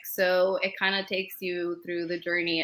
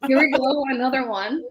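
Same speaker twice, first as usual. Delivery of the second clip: weary; 6 semitones higher, 5 dB louder than usual. Retold or imitated. Echoing resigned reaction.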